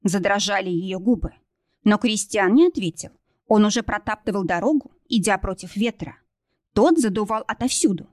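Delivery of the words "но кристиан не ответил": ordinary delivery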